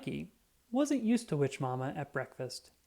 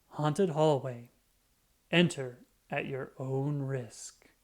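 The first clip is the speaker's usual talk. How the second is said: spooky sign reading; slower than usual. Acted.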